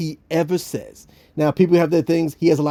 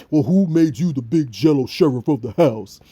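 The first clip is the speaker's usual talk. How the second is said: sullen Bill; 2 semitones lower than usual. Retold or imitated. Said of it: "the sullen Bill was like".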